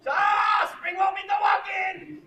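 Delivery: loud, high, shouted welcome; excited waitress greeting. Retold or imitated. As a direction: call it out across the restaurant. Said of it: "That's what she would do".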